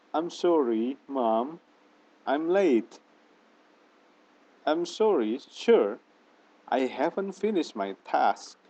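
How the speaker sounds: slow, deliberate apology with clear intonation; careful model intonation. Shown as a demonstration. Teacher showing students how to apologize, careful model intonation. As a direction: model each phrase clearly and unhurriedly. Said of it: "intonasi yang baik".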